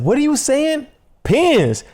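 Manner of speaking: high-pitched mock disbelief; baffled retold question. Friend puzzled by the bowling invitation, baffled high voice. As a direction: query it high, as if you can't believe the word.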